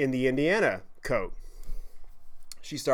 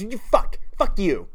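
mock drunk insult; 6 semitones higher, 3 dB louder than usual. Drunk girl cursing him off.

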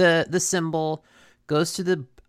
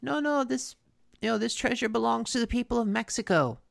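higher-pitched mock plea; imitating someone pleading, raised pitch; retold pleading; 5 semitones higher than usual. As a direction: lightly act out a protesting plea. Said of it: "Alvarez is pleading with him".

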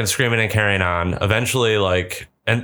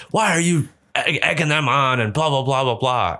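lightly voiced higher-pitched scolding; imitated husband; 4 semitones higher than usual. Husband asking why she eggs the kids on, mock exasperation. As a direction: mimic a husband's mild exasperation, pitch raised.

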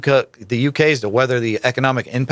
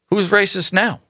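taunting; 7 semitones higher than usual. Real, not acted. Rhetorical jab after an accusation.

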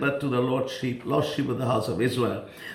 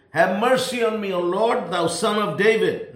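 retold plea in a higher pitch; crying out; 5 semitones higher than usual. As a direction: imitate her calling out for mercy, voice lifted. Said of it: "cried unto Jesus".

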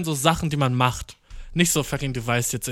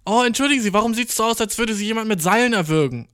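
high polite stranger; 6 semitones higher than usual. Retold or imitated. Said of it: "stranger asking, voiced".

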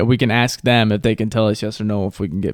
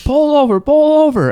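much higher, shouted pull over; mock yell; 5 dB louder than usual. Angry driver demanding he pull over, hammed-up shout. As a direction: imitate the angry driver barking orders. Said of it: "He goes".

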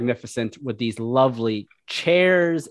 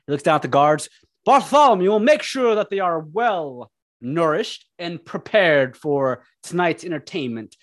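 lightly voiced lordly host; a touch of grand villain; booming echoing villain monologue; 4 semitones higher than usual. God leads guests away.

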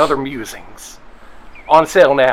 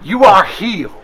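raised, proclaiming faith healer; a preacher calls out the cure to his flock, proclaiming; 6 semitones higher, 4 dB louder than usual. Acted. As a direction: proclaim the healing like a tent preacher. Preacher heals.

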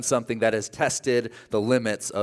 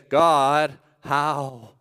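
fading to a broken whisper; desperate prayer. Retold or imitated. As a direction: plead with God, ending in whisper. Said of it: "we just say".

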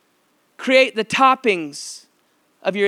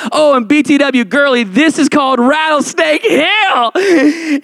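teasing reveal; 7 semitones higher, 5 dB louder, slower than usual. Retold or imitated. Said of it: "She started weeping".

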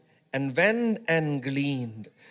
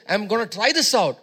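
hammed-up doubtful aside, louder and faster at the end; mock unsure speaker; 2 semitones higher, 6 dB louder than usual. Preacher mocking how believers talk when deciding, unsure. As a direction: play someone hedging their bets. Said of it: "we speak like this".

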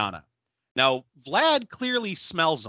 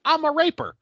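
higher, louder, hammed-up declaration; mock villain declaration; 11 semitones higher, 5 dB louder than usual. Werewolf suddenly turns on Jen, higher hammed-up declaration. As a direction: blurt it out like a cartoon creep. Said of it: "and then he decides".

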